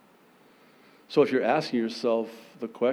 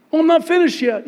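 loud God voice; 11 dB louder, much faster than usual. Acted. God turns heat up.

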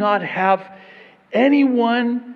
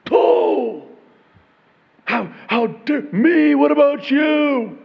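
slow, higher, louder indignant friend; mock offended friend; 5 semitones higher, 5 dB louder, slower than usual. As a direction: play the insulted friend, hammed up.

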